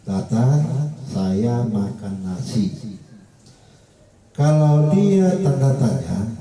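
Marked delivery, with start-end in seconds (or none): 1.1-2.7 flat declarative reading of "Saya makan nasi", settling low at the end; teacher's demo of a full-stop sentence, "nasi" left level; level statement tune. Shown as a demonstration. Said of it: "itu biasanya datar".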